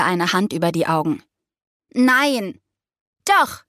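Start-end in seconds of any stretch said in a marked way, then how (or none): 1.9-2.6 higher-pitched, emphatic no; one drawn, emphatic no; firm refusal. A narrator's reading. Refusing someone knocking at door. 3.2-3.6 high, punchy contradiction; much higher, one sharp retort; insistent friend through door. A narrator's reading. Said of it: "drang Leas Stimme durch die Tür".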